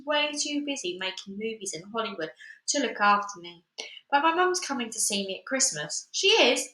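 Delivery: put-on lively first-person reading as a cheeky girl; story narration. A narrator's reading. Reader performing the book for her YouTube viewers, lively narration. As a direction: read it like Tracy telling her own story. Reads the Tracy Beaker book aloud.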